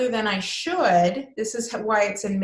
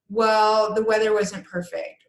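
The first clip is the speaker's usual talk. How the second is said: louder, emphatic mock excuse; defensive excuse; 4 dB louder, slower than usual. Teacher acting out a defensive excuse about the weather. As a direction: punch the well, defensively. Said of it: "why I say it's defensive".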